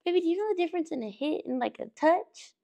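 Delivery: 笑いをこらえつつ早口で高めに; quick, high, half laughing disbelief; amused fast teacher question. Retold or imitated. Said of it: "And I was like".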